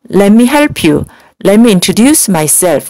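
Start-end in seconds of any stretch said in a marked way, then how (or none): 1.4-2.9 "Let me introduce myself" slowly, word by word; a teacher modeling slowly for repetition; slow model reading. Shown as a demonstration. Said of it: "우리 한 번씩 따라해볼까요?". (따라하기용으로 천천히 또박또박)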